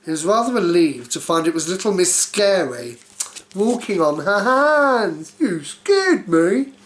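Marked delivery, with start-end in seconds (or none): 5.4-6.7 slow, louder breathless surprise; startled. Acted. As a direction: react to a fright. Startled character line.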